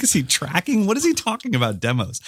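high, incredulous squeak; mock disbelief. Shopper baffled by the old man's demo rant, high disbelief. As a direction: sound utterly lost at his rant, up high.

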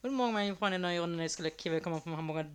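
carnival barker. Pretend. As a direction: hawk lottery tickets to crowd. Fairground lottery barker at Dom.

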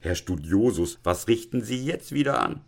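mild acted exasperation, rising pitch; angry deputy headmaster. Deputy headmaster rebuking the student, mildly exasperated. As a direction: scold the student, voice climbing. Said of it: "schrie der erboste Konrektor".

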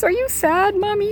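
a hint of a curious little daughter; little girl. Nine-year-old daughter asks mother.

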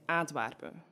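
"Antwerpen" in the flat Antwerp dialect, ending swallowed. Shown as a demonstration. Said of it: "someone from Antwerp".

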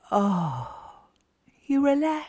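whispered relief. Real, not acted. Whispering to mothers about the calm of nursing. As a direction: breathe it out in a whisper. Describing milk letting down.

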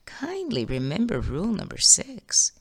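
hushed, kindly reminder; calm caution. Acted. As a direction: gently settle him down, almost a whisper. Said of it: "calmly cautions him".

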